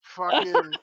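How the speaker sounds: slow mocking drawl of a friend's words; teasing quote. Friend mocking a slip about the dad, slow teasing drawl. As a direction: drag it out to tease. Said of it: "The phrase you were like".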